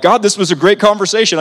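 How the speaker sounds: pleased with yourself; cheerful. Retold or imitated. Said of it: "I'm like".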